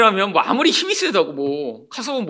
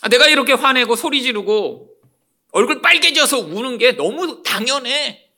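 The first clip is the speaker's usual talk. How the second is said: self-righteous anger; 3 semitones higher, 3 dB louder than usual. Acted. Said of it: "자기가 정당하다고 여기기 때문에 화를 냅니다".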